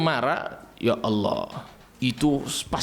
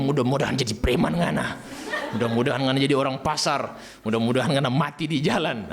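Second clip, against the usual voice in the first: mock local curse. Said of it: "kita orang punya".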